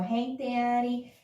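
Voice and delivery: slow, drawn-out singer's hook; lightly voiced song cue; imitating a rapper. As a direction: lightly imitate the singer, stretching each word. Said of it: "You go".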